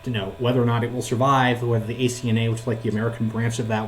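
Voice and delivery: robot voice from a bad call connection; glitching robot-voice call audio; robotic glitchy audio. Real, not acted. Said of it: "you're roboting".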